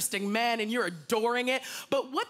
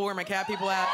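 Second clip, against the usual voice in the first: calling out; 4 semitones lower, faster than usual. Real, not acted. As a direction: shout out to find the cat fans. Calling out to the crowd.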